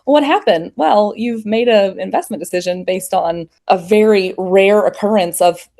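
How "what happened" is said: higher-pitched, bewildered mimicry of panic; mock panic. Guest mimics people panicking as prices normalize, mock panic. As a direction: imitate a panicked investor's dismayed question. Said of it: "people are panicking and going".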